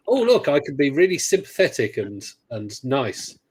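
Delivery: mock-sympathetic option read aloud. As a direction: parody being sympathetic. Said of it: "all the sarcastic responses".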